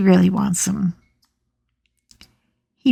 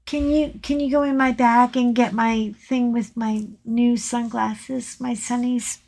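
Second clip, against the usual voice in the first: calling from another room; 2 semitones higher, 7 dB quieter than usual. Real, not acted. Calling off mic to husband.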